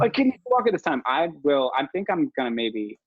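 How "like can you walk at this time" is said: mocking other parents in a pitched-up voice; a high, nagging imitation of an eager parent; pushy parent. Mocking other parents who rush babies to walk, high mock nag. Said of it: "a lot of people are like".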